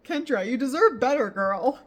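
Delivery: cheering Kendra on. Real, not acted. Cheering a book character.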